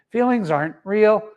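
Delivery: stiff monotone robot voice; flat mechanical robot delivery. Retold or imitated. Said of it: "like in a robot voice".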